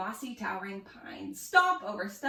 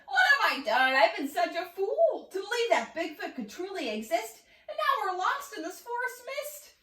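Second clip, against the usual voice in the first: louder at first, then higher and whining; losing his cool; 6 semitones higher, 3 dB louder than usual. A narrator's reading. Klaus in the foggy forest, whining in despair. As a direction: wail out your regrets. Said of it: "Klaus really lost his cool".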